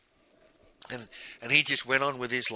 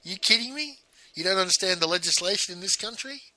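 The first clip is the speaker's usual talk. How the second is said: incredulous; 9 semitones higher than usual. Retold or imitated. Husband to wife who says he can't divorce her, incredulous and high. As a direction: pitch way up in mock astonishment. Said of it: "I'm like".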